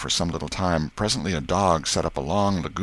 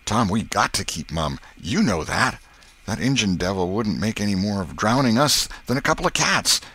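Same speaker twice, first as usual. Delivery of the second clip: lightly voiced country boy, emphatic; Huck's insistent voice; 3 semitones higher, 3 dB louder than usual. Huck urges Tom to swear silence, insistent. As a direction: urge your friend in rustic boy talk.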